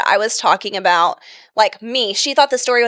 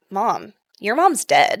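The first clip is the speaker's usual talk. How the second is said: slow, matter-of-fact imitation; deadpan child; 2 semitones lower, 4 dB quieter, slower than usual. Mother imitates her daughter bluntly addressing her, deadpan. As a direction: deliver it slowly, like a blunt little kid. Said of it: "and deadpan".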